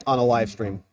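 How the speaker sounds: talking through a mouthful; chewing while talking; mouth full. Real, not acted. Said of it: "Shouldn't chew with my mouth full".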